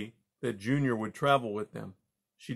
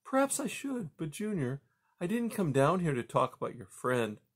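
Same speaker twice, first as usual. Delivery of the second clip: higher-pitched, patient mother; lightly voiced mother mouse; 6 semitones higher than usual. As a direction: gently voice a mother mouse reasoning with her son. Mother mouse Poppy speaking.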